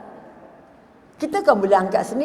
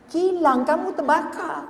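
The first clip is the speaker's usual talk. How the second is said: higher, slower, pressing the news again; insistent repeat; 6 semitones higher, slower than usual. Retold or imitated. Messenger repeats the fire news, higher and slower in disbelief. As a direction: say it again, stunned he didn't react.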